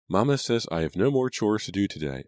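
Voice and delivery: happy. A narrator's reading. Abigail is free of chores, speaking happily. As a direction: announce it gleefully as a young sister. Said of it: "Abigail said happily".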